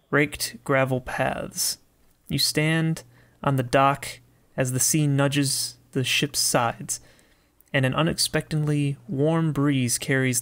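measured, unhurried storytelling read; story narration. Acted. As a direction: set the scene with deliberate pauses. Reads the game's scene description.

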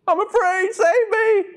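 very high, loud, frightened plea; terrified call for help; panicked cry. Acted. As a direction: shriek it like you're going under. Voicing Peter's panicked plea.

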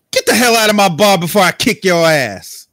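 furious bartender threatening to throw him out; angry yell. Acted. B yells him out of bar.

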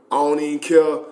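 chuckling through the words; laughing. Real, not acted. Telling the audience his answer, laughing.

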